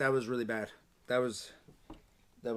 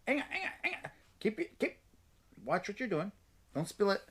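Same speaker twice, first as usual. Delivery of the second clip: urgent; 7 semitones higher, 5 dB quieter than usual. Real, not acted. Dad steadying kid with spill.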